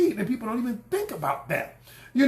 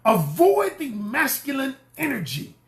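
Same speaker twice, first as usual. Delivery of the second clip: emphatic higher repeat; louder, higher repeat; 4 semitones higher than usual. Shown as a demonstration. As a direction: say it again higher, pushing it home. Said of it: "I need to scream this louder".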